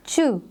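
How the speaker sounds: short isolated चू; teacher models the tch sound; sounding out chu. Shown as a demonstration. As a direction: say चू as one clear ch sound. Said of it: "sound produce कर रहा है चू की".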